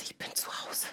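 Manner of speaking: unvoiced, very soft whisper; a hushed, awed whisper of arrival. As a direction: breathe it out like a quiet confession. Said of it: "Ich hab gesagt".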